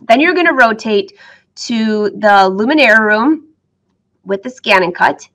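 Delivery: talking through hiccups; hiccupping between words. Real, not acted. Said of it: "I have the hiccups".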